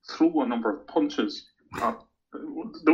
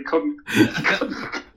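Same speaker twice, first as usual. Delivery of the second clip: words breaking up into high laughter; can't finish the line for laughing; giggling through the end of the story; 9 semitones higher, much slower than usual. Real, not acted.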